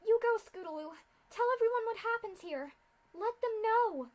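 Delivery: high, loud desperate urging; urgent loud plea. Acted. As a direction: send her off with all you have. Aurora urges Scootaloo to escape.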